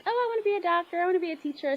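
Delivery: put-on childhood dreams voice. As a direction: lift the voice like a little girl. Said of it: "we had those dreams like".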